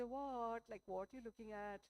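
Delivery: lightly voiced happy surprise; a touch of delighted questioning. Woman to the boyfriend gazing at her, happy. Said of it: "she would get all happy".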